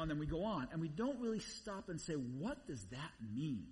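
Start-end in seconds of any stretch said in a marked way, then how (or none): 2.1-3.7 slow, lower "What does that mean"; pondering question. Acted. Preacher modelling a reader who stops to ask, pondering slowly.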